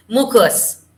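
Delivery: MUCUS said slowly as "MOO-koos". Shown as a demonstration. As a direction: give "mucus" two oo-like vowels, moo-koos. Trying to pronounce an unfamiliar word.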